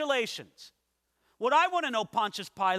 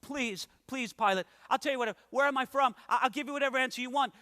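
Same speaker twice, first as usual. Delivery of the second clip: mock begging; 4 semitones higher, faster than usual. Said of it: "beg for their life".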